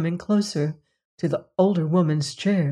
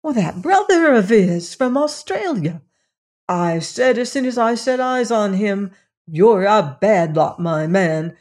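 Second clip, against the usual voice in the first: excited gossip, pitched up; 3 semitones higher, 4 dB louder than usual. Acted. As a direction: tell it eagerly in a raised pitch. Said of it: "said Elsie excitedly".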